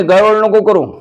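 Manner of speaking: God telling Namdev not to fret; God's voice. Acted.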